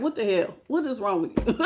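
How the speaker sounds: quietly asking what is wrong with you; mild mock scold. To a cocky person, a touch of mock exasperation. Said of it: "makes me wanna slap somebody and be like".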